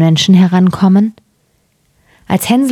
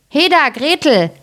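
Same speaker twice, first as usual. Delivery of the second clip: high-pitched summons, mildly commanding; calling to the girl; 8 semitones higher than usual. A narrator's reading. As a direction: call her over without raising the volume. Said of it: "rief sie dem Mädchen zu".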